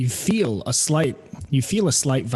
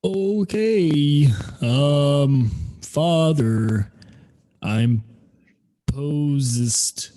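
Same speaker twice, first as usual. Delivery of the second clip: slow awkward tree voice; much slower than usual. Acted. Tree mangles the message slowly.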